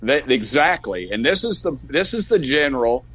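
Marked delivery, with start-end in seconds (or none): 1.1-3.0 worked up. Real, not acted. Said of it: "I'm getting up, uh, worked up".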